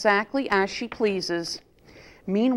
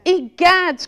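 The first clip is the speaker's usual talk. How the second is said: high, loud startled Egads; shocked cry; 9 semitones higher, 7 dB louder than usual. A narrator's reading. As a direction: gasp it out in alarm. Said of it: "cried Mama Bear".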